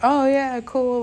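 light up at the idea; excited oh yeah. Retold or imitated. Handed the clown's sticks at the festival, excited.

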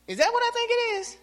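high startled question; alarmed surprise. Retold or imitated. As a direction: gasp it out in shock. Spots a snake on lawnmower.

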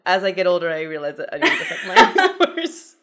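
mock title read. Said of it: "That could be the title".

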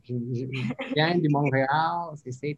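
imperfect attempt at a Montreal French accent; lightly put-on Québécois accent, as a classroom example; imitated Quebec accent. Shown as a demonstration. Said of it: "quand je parle comme ça".

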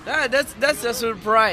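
surprised. Real, not acted. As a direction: burst out, genuinely taken by surprise. Learns the host planned it.

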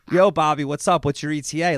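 put-on loud phone greeting in Philly accent. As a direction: belt out a Philly-accented hello. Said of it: "that's my Philly accent".

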